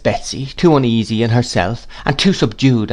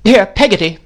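higher, louder call through the door; 11 semitones higher, 5 dB louder than usual. A narrator's reading. Aunt calls to servant in the passage, raised and commanding. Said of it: "cried Miss Betsy".

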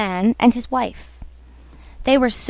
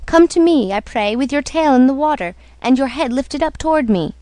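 calling out; 2 semitones higher than usual. Acted. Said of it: "he called".

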